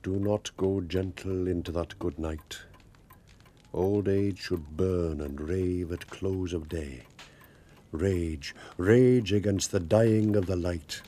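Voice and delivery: slow, solemn recitation; reciting poetry. Acted. Old man recites poem aloud to the woman he loves, slow and solemn. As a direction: declaim Dylan Thomas, slowly. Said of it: "I'm embarrassed now".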